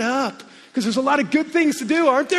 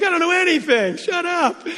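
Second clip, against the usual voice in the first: exasperated self-talk; 7 semitones higher than usual. Retold or imitated. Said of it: "I'm like".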